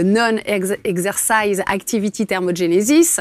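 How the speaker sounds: the English term spelt out slowly in a French accent; self-mocking French accent on an English term. Shown as a demonstration. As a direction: say the English words carefully in a thick French accent. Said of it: "avec mon bel accent anglais".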